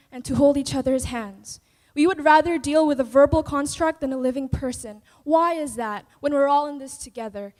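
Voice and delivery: dramatic poem recital; spoken word poetry. Acted. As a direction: perform it like slam poetry on stage.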